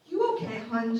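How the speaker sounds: put-on a crew lady's Australian accent; thick Australian accent. Crew member checks on a seasick girl, in a thick Australian accent. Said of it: "she said in her thick Australian accent".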